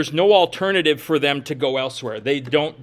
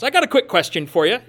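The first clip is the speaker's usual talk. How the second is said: imitating Marcus on the phone; 5 semitones higher, 4 dB louder, faster than usual. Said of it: "like answering the phone when Marcus calls".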